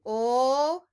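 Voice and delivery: the first sound of "light" held alone, a long l. Shown as a demonstration. Teacher breaking a word into parts for children, sounding out. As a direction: sound out "Ul" as a drawn-out l. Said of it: "break it down into two parts".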